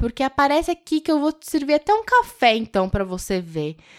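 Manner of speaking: ironic tone. Retelling what a woman said when people messaged her, in a mock-ironic tone. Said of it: "toda irônica".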